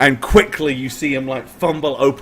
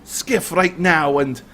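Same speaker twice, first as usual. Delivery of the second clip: mock humble robber; 4 semitones higher than usual. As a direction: feign humility, then demand it all. Highlander feigns humility, then demands belongings.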